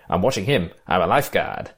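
mock bad Australian accent; James Coburn. Retelling Coburn's reply to the guard, bad Australian accent. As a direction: imitate an awful attempt at an Australian accent. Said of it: "with his awful accent".

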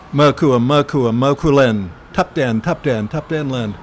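barked orders at a door; loud military command. Retold or imitated. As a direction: call out like a soldier demanding entry. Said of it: "in a loud military voice".

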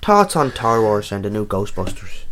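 a shaky stab at an Irish accent; attempted Irish accent. Shown as a demonstration. Co-host reading a listener's question, in an attempted Irish accent. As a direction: try Irish, with "torts" for thoughts. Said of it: "I can't do an Irish accent".

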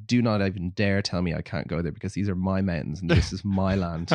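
low, mock-solemn territorial protest; mock indignation. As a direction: lay down the law as a joke. Jokey retold stand against film crew.

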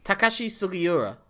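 "Takashi Sugiura" said surely as ta-KA-shi su-gi-U-ra, falling at the end; correcting pronunciation. Shown as a demonstration. Host correcting co-host's attempt at the name, assured "Takashi Sugiura". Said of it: "I believe, is how it's pronounced".

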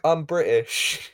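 slow imitation of British people; mock British accent. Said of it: "British people be like".

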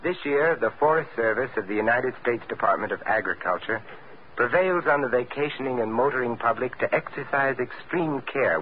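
measured, earnest announcer read; public service announcement. Acted. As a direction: address the listeners like a sponsor's spokesman. Star reads public service announcement.

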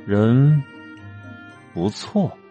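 low, airy and quietly menacing; light, chilling tone. Acted. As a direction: breathe it out light but cold. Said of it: "顾廷钧的语气变了，轻飘飘的，像是在往上扬，却又让人生出一股子寒意来".

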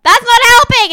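high, loud imitation of objectors; mock outraged retort. Podcaster retelling the others' objection, mock outraged retort. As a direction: burst in with exaggerated protest. Retold objection to her offer.

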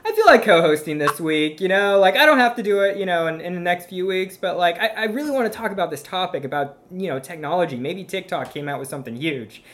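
playful impression of the guest; mock Annie voice. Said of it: "It's like".

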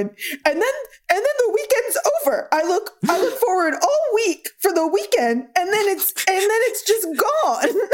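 high, weary older man, lightly imitated. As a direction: sigh it out like a tired dad. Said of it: "he's just going".

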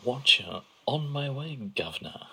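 a playful Cockney greeting; mock Cockney. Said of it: "old Earth Cockney".

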